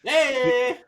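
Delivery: loud high hey; excited hey. Real, not acted. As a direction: call out proudly. Reacting to his guy mentioned.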